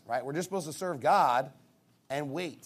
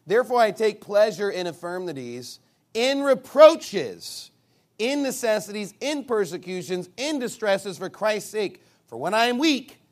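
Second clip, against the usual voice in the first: emphatic scripture reading; 4 semitones higher, 7 dB louder than usual. Acted. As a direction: punch the key words and stretch them out. Reads scripture aloud emphatically.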